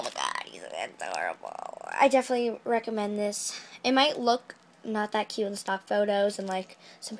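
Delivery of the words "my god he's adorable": low voice. Pretend. Low cooing voice.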